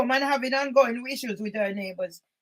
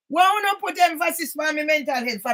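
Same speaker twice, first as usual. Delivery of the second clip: indignant shout. Real, not acted. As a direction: demand it back at the report. Repeats the complaint louder.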